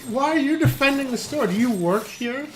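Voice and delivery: accusing snap. Retold or imitated. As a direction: throw the question back at him like she's offended. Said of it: "she's like".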